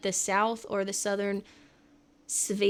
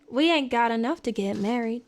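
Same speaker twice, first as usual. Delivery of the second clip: Southern belle accent. Shown as a demonstration. Streamer correcting a remembered show line, Southern belle accent. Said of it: "No, wait".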